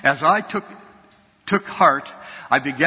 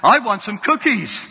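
put-on child asking again, a touch louder; a little louder; 4 semitones higher than usual. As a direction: push the same cookie demand slightly harder. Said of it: "with a little louder voice".

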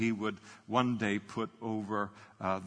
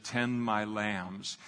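slow gentle Jesus; much slower than usual. Retold or imitated. Jesus telling Peter to feed his sheep, slow and gentle. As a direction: lay each word down slowly and tenderly.

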